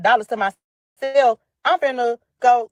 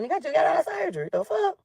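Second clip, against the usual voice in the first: laughing in disbelief; 7 semitones higher, 4 dB quieter than usual. Real, not acted.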